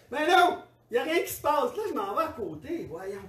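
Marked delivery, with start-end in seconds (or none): 0.1-1.8 alarmed surprise. Retold or imitated. Alarmed that baby stopped crying.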